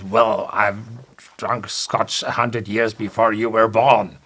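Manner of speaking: put-on a touch of offended old engineer; lightly voiced proud Scotsman; understated huffy retort; mildly indignant Scotty.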